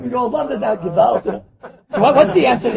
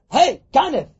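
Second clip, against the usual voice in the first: sharp, louder, higher challenge; calling out; 4 semitones higher, 4 dB louder, slower than usual. Acted. Catching a thief downstairs at night, calling out. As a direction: shout it at an intruder. Confronting a thief in acted scene.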